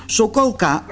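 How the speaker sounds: high call to the dog; high-pitched young-princess voice. A narrator's reading. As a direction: start to chide a pet by name. Princess begins scolding dog.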